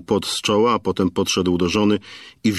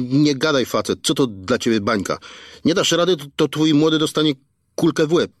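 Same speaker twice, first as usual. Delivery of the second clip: crude threatening thug, pitched higher, halting on words; thuggish kidnapper; 8 semitones higher than usual. Acted. Kidnapper dictating the ransom to the father, crude and threatening. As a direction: lay out the ransom terms like a street thug.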